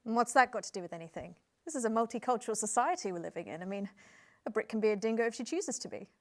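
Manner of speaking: quick indignant comeback; fast, prickly retort; defensive. Acted. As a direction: brush off the challenge fast. Guest defending herself.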